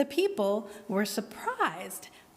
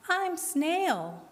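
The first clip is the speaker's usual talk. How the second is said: put-on high, small little girl voice; small squeaky voice; 8 semitones higher than usual. A narrator's reading. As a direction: speak up shyly like a tiny girl. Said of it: "in a small, squeaky voice".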